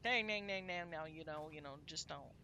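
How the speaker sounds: lightly mocked country twang; a rough stab at a twangy country accent. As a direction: imitate country folk with a hint of twang. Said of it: "they have more twang than the guitar".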